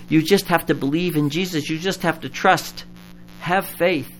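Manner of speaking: quoting people who say "Have faith" lightly; mock pious advice. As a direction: imitate glib well-meaning church folk. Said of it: "people come to me and say".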